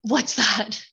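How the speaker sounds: glitchy robotic whisper; breaking up like a bad connection. Real, not acted. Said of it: "You sounding like a robot on volume".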